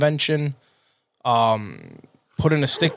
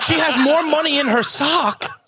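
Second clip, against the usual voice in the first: high-pitched laughing line; 11 semitones higher, 3 dB louder than usual. Real, not acted. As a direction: laugh through it.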